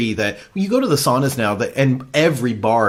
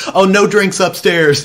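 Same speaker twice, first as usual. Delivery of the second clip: louder, slow sing-song reminder; firm staff warning; 5 semitones higher, 6 dB louder, slower than usual. Retold or imitated. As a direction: call out the rule slowly. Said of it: "and she goes".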